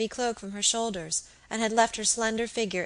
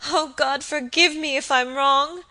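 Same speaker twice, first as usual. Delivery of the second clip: louder, higher, gasping plea; gasped; 6 semitones higher, 7 dB louder than usual. Acted. Kneeling woman praying for forgiveness, gasping. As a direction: gasp it out in broken pieces. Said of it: "gasped in detached sentences".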